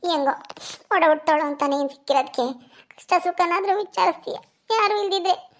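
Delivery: high-pitched acted tearfulness; tearful. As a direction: speak high, on the edge of weeping. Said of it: "ಅಳ್ತಿದ್ಯಲ್ಲೇ". (ಅಳುತ್ತಾ ಮಾತಾಡುವ ನಟನೆ)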